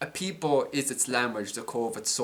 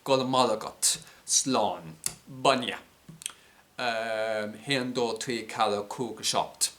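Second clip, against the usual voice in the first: native Irish words in an Irish accent, a bit louder; 3 dB louder, slower than usual. Shown as a demonstration. Showing how speaking Irish brings out the accent, Irish accent. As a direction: count off the Irish words with an Irish lilt, unhurried. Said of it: "an Irish accent to it, like".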